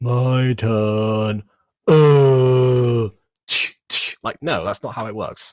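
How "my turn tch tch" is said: very slow, limp, unconvinced, half-hearted delivery. Mocking how a character delivers a line without determination: mocking a limp, unconvinced delivery. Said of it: "You're not supposed to just lie and be like".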